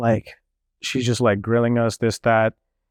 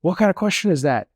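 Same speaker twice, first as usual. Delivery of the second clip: aggressive; 6 semitones higher than usual. Retold or imitated. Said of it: "she got, like, really aggressive".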